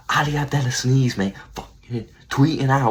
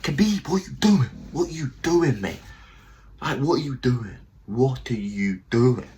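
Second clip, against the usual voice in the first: mock exasperated fighter; 3 semitones higher than usual. Umar pleading with Khabib mid-fight.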